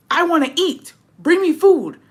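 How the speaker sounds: loud, high-pitched demanding shout; imitated angry yell. Angry diner at a self-serve buffet, yelling his demand. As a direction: mimic a man bellowing for service. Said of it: "why are you yelling".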